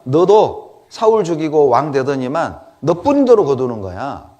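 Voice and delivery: acted jeer, loud then dropping off; loud taunting accusation; mocking condemnation. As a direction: throw the blame back with scorn. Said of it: "이렇게 조롱을 하고 비난을 했단 말이에요".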